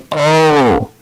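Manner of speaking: high, drawn-out exclamation; exclaimed wonder. Retold or imitated. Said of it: "they will exclaim".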